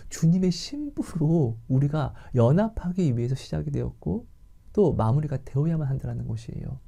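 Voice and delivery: ordinary delivery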